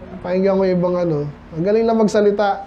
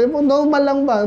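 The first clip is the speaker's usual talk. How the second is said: slightly raised voice; 4 semitones higher than usual. Shown as a demonstration. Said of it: "May konting tataas mo yung boses mo".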